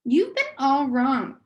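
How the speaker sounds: canny recorded voice. Acted. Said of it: "There was a canny quality to it".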